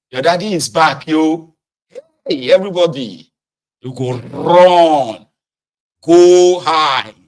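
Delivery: loud, urgent calling out; children shouting that their dad is back; alarmed warning call. Retold or imitated. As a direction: warn the others to hide. Kids warning as father arrives.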